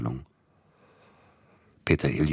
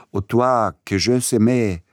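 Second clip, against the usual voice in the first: higher, louder delirious outcry; shouting at someone; 7 semitones higher, 6 dB louder than usual. A narrator's reading. Delirious patient to the approaching nurse, shouting. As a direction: cry it out at the nurse in French. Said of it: "schrie er ihr zu".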